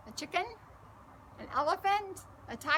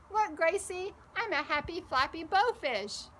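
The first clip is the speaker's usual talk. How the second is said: put-on excited child; 6 semitones higher, 4 dB louder than usual. Boy splashing in pool.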